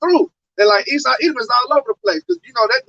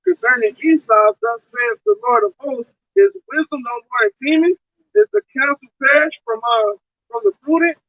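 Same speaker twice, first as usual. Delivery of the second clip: scripture reading. Acted. Reads Jeremiah verse aloud.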